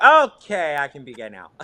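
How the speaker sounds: a rush of joy then a sheepish hush; giddy relief. Retold or imitated. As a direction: burst of happy relief that melts away. Joyful relief at mother's acceptance.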